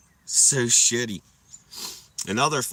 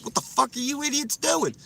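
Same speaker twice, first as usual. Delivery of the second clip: higher, mocking cop; 12 semitones higher than usual. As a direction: play the annoyed cop. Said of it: "they were like".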